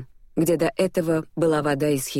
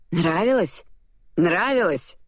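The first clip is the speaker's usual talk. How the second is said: astonished; 3 semitones higher, slower than usual. A narrator's reading. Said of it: "изумился он".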